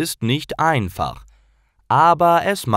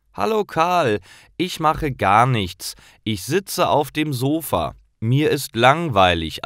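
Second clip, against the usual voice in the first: higher, lightly voiced bored boy; bored boy Paul; 6 semitones higher than usual. Paul tells his friend Karl on the phone, higher bored boy. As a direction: sound young and bored on the sofa.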